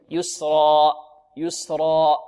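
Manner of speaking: "يسرا" with a loud, short-held final alif stopped abruptly; final-alif length demo. Shown as a demonstration. Teacher demonstrating the ending to students, loud stopped alif. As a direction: push the last vowel of "يسرا", then stop it. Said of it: "ولا نختمها بهمزة".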